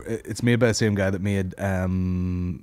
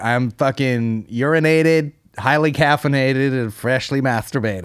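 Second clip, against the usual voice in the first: meme voice; 2 semitones higher, 3 dB louder, slower than usual. Retold or imitated. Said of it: "that meme of that girl being like".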